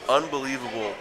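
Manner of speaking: big arena announcer call. Retold or imitated. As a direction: boom it like a PA announcer. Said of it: "like, announcer voice".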